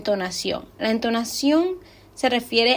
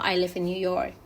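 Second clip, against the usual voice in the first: YORK falling slightly at the end; a plain statement that drops a little on YORK; falling intonation. Shown as a demonstration. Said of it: "baja un poquito".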